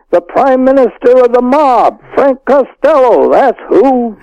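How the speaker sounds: blurting out the big reveal to his cousin; excited. Retold or imitated. Phoning cousin with big news.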